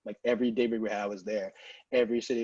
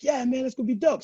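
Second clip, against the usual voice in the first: higher, casual agreement; a chill DJ, higher; lightly voiced DJ; 12 semitones higher, 5 dB louder than usual. DJ agrees, mildly voiced. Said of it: "He's like".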